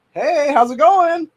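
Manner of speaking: high, slow, sing-song fake friendly hello; mock friendly greeting. To the creepers outside, a slow mock-friendly greeting. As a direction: greet them with mock cheer. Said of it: "I'm just like".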